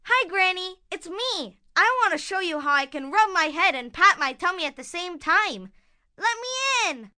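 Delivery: lightly disguised wolf voice; a hint of put-on sweetness; wolf posing as granddaughter. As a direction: pretend to be a little girl at the door.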